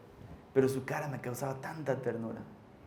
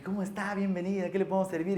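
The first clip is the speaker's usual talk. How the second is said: higher-pitched, courteous shop greeting; acted polite shopkeeper; customer-service welcome; 4 semitones higher than usual.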